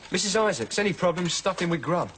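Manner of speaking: lightly mock a mother who fixes everything with food; mimicking Dave's mum. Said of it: "I'm just like Dave's mum".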